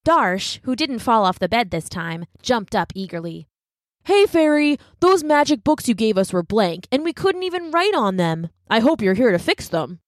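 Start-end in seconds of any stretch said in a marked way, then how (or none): 4.0-10.0 put-on eager boy. A narrator's reading. Boy eagerly complains to fairy.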